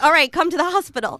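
lightly acted loud, high urging; mock insistent. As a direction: raise your voice, acting out giving in. Acting out her reply to friend.

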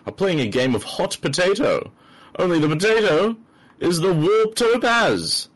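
building trailer-announcer excitement; dramatic build. Acted. Hamming up the official episode blurb.

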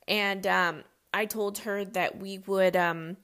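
talking between sips of coffee; words round a sip of coffee; while sipping coffee. Real, not acted. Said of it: "Sorry, I'm drinking coffee".

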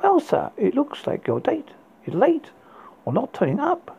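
a smarmy waiter's fake French accent; pretend French accent. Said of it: "in his best pretend French accent".

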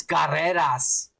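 "Garreras" with a Spanish first vowel, gah; "Garreras" drawn out, opening on an open "gah"; Spanish-style pronunciation. Shown as a demonstration. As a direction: say "Garreras" slowly, the Mexican way. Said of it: "spell it the Mexican way".

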